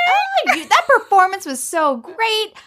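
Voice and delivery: high, sarcastic gushing praise; mock praise. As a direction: gush high in mock admiration. Man mocks her acting.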